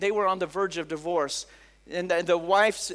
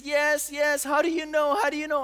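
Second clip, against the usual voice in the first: higher, urgent mock-crying voice; imitated tearful astonishment; 5 semitones higher than usual. Discouraged girl to the stranger who knows her secret, imitated tearful astonishment. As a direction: act out an overwhelmed girl, pitched up without real sobs. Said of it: "she starts crying. She says".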